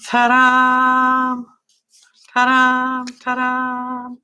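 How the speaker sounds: high, sung out ta-da; ta-da fanfare. Pretend. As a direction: present it like a magic trick. Showing the finished page.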